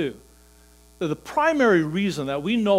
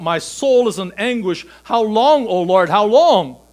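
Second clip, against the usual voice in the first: much louder and higher, anguished lament; crying out with David; 5 semitones higher, 10 dB louder than usual. Acted. Believer crying out to the Lord, anguished lament. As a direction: wail the psalm in anguish. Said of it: "when we cry out".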